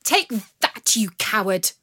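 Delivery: fiery retort. Acted. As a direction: spit the insult at him. Marian slaps the bandit.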